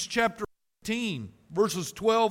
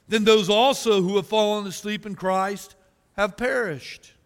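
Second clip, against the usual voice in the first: forceful scripture reading; 3 dB louder than usual. Acted. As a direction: read the verses out like a preacher, building. Reads scripture with preaching force.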